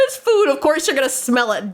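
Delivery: giggling through the comeback; laughing quote. Real, not acted. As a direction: repeat it while still laughing.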